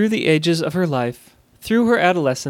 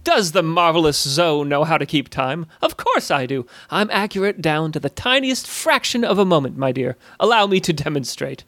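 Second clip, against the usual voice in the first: lightly voiced boastful goblin; proud goblin. Goblin answering Alyssa's doubt about keeping time, proud. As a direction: echo the question as a mildly affronted showman.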